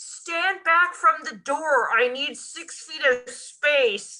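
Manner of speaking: high, drawn-out, acted shout. Retelling a store worker at a door: imitating someone yelling. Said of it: "he yells through it".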